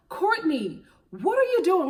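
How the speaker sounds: high, loud "what are you doing?"; exasperated call-out. Retold or imitated. Vlogger yelling at Courtney on TV, high and exasperated. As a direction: throw the question at her in disbelief. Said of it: "I'm just like".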